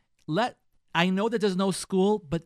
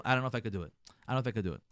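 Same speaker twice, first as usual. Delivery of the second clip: hesitant husband; 7 semitones lower, 3 dB quieter, much faster than usual. Retold or imitated. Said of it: "your husband's probably gonna tell you".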